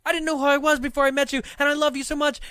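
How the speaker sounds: high, loud rom-com lover; mock desperate pleading. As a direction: gush a hammed-up romantic plea. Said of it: "so desperately, like, eye-rolling".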